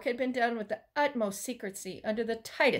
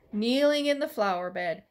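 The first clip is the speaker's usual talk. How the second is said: plain reading voice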